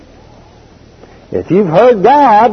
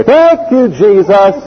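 fervent praise; 3 semitones higher than usual. Retold or imitated.

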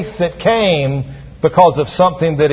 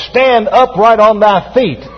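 slow, higher-pitched proclamation; mildly raised voice, commanding a miracle; loud voice; 4 semitones higher than usual. Acted. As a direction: call out a command, drawn out. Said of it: "Paul said with a loud voice".

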